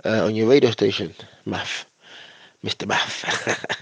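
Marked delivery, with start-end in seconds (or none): 1.4-3.8 whispered. Acted. Playful whispered shout-out to friend.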